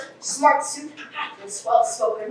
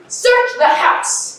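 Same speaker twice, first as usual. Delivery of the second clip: commanding order; 11 semitones higher, 5 dB louder, much slower than usual. Acted. Inspector orders everyone out.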